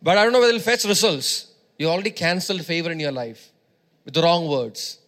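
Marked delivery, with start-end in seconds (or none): 0.0-1.5 hammed-up doubtful aside, louder and faster at the end; mock unsure speaker. Preacher mocking how believers talk when deciding, unsure. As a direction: play someone hedging their bets. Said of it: "we speak like this".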